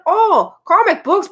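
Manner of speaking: put-on high, slow toddler wonder; baby voice. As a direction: coo it like a little baby. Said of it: "And so she was like".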